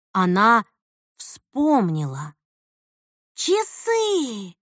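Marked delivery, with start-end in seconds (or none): 3.3-4.6 horrified. Acted. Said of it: "с ужасом посмотрела на мать".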